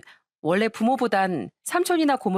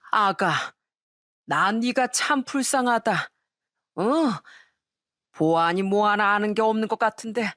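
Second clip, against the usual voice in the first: lightly voiced pitying elder; drunk father-in-law. Drunk father-in-law confides in his pitied daughter-in-law, mildly tipsy. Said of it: "시부가 저한테 다가오더니".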